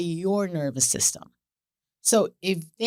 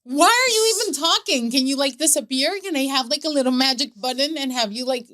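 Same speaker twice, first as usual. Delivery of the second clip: louder, higher exasperated rant; mock exasperation; 4 semitones higher, 4 dB louder than usual. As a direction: vent at the husband, half joking. Mère exaspérée imagine le mari.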